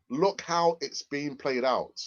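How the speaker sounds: slow, drawn-out repeat; slow emphasis. Real, not acted. Streamer making the point to Brian, slow and emphatic. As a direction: stretch the words out slowly to sink in.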